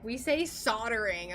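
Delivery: soldering said "soddering", L dropped; American pronunciation. Retold or imitated. Streamer answering a TikTok critic, soldering as "soddering". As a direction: say soldering with a silent L. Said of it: "hearing me say soldering with my little American accent".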